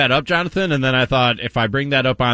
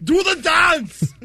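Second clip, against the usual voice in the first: hyped dance call; 11 semitones higher than usual. Acted. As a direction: call out the dance moves like a hype man. Mock TikTok dance instruction.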